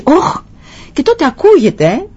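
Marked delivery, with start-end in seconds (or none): 0.0-0.4 high-pitched yelp "Όχ!"; shouted cry of pain. Retold or imitated. Father telling of his son's fall in the mountains, shouted cry. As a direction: cry out as a little boy who fell. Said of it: "και φωνάζει".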